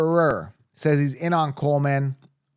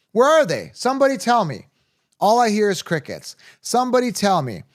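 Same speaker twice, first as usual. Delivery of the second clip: taunting; 5 semitones higher than usual. Real, not acted. Taunting the listeners.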